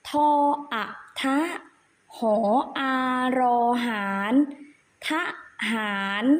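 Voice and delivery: ทหาร sounded out as ทะ-หาร, syllable by syllable; spelling aloud. Shown as a demonstration. Teacher shows children the hidden vowel, measured spelling recitation. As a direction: spell ทหาร in separate, evenly paused pieces. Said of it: "อีกครั้งหนึ่งนะคะ".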